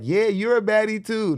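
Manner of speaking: very high, loud fake-supportive squeal; exaggerated falsetto cheerleading; mock hype friend. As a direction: imitate a girlfriend gushing falsely. Mimics friend falsely hyping her up.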